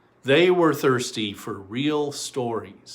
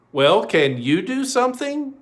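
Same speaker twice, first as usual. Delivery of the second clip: high and louder, urgent asking; eager plea; 8 semitones higher, 4 dB louder than usual. Acted. Children ask the storyteller for help, high and eager. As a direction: beg for help, pitched up.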